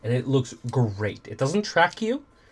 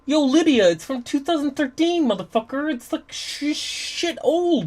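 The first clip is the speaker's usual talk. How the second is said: higher and louder teasing call across the house; 12 semitones higher, 5 dB louder than usual. Real, not acted. Streamer calls out to wife Lydia, loud teasing call. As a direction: shout it over to Lydia.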